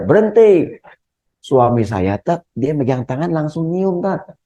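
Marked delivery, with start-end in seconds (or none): 0.0-0.8 mock shout. Shown as a demonstration. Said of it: "teriak aja".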